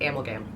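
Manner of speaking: soft, low Amalgam as AM-ul-gam; own pronunciation. Shown as a demonstration. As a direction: quietly hit AM in Amalgam. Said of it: "more fun to say it that way".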